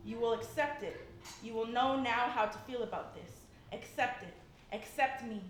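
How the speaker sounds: measured, rhythmic slam poetry delivery; spoken word poem. Acted. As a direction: recite it to the room with weight.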